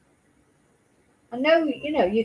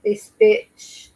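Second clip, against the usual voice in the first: sharp, loud, higher cry of disgust; furious outburst; 10 semitones higher, 6 dB louder than usual. Real, not acted. Reacting to the footage, she bursts out in loud anger. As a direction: spit it out at the mother on screen.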